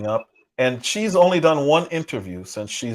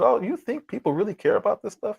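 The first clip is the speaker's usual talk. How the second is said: mocking quote; 9 semitones higher than usual. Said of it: "she said".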